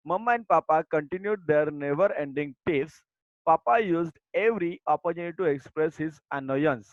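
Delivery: slow, deliberate textbook reading; reading aloud. Acted. Teacher reading the lesson text to her students, slow and deliberate. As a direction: read each word out slowly for the class. Reads the English passage.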